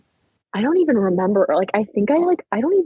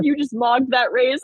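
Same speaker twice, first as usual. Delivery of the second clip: imitated hype; 5 semitones higher than usual. Retold hyped exchange between friends.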